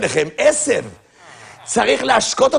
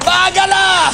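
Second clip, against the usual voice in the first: raised, repeated call; shouted answer; 4 semitones higher than usual. Acted. Answering where to put the things, shouting. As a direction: call it out higher, the same each time.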